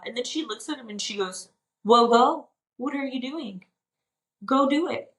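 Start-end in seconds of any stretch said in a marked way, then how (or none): 1.8-5.1 acted-out exasperated urging, pitched up; mildly impatient wife pushing him on; urgent wifely prodding. Wife tells husband to go do it, urgent prodding.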